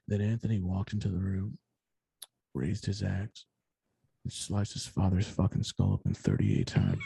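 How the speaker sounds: low, measured mock true-crime narration; deadpan, low crime-story read; mock podcast narrator.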